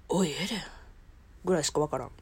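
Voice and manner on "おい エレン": Levi impression. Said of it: "リヴァイ".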